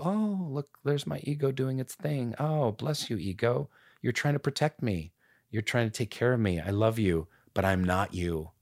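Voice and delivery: soft, tender talk to the ego; wise inner voice. Pretend. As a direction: gently soothe your own ego like a sage. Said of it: "I sounded wise all of a sudden".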